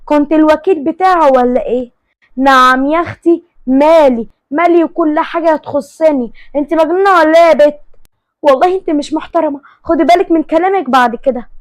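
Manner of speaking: acted catty argument; heated quarrel. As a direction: trade insults in an indignant tone. Acted quarrel between two rival women.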